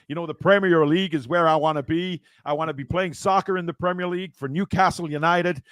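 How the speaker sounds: a light American accent held through, lightly voiced; American footballer accent. Streamer answers viewer request with light American footballer accent. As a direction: play a US soccer player wanting Newcastle, in a light American accent. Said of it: "Sound like Chris Rodriguez".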